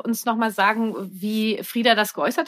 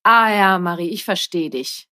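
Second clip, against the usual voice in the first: dismissive empathy; 3 semitones lower, 3 dB louder than usual. Shown as a demonstration. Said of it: "Ich hätte auch sagen können".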